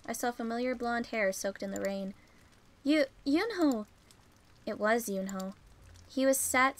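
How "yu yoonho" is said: surprised call. Acted. Spotting boy in rain.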